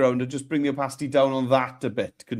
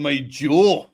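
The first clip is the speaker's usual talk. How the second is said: Scottish accent; 3 dB louder than usual. Shown as a demonstration. Coaching him in the Scottish accent.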